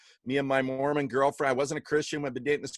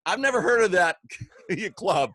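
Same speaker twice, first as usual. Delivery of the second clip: puzzled surprise; 4 semitones higher, 4 dB louder than usual. Retold or imitated. Retelling his surprised reply to girl.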